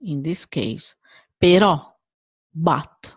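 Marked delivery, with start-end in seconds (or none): 1.4-1.9 però with a loud open stressed final O; però, open accented O. Shown as a demonstration. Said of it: "open sound".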